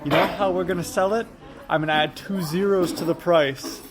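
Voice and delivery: lightly voiced salesman from a film; a hint of a scheming car dealer; Danny DeVito. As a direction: retell the movie quote in character. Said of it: "He's like".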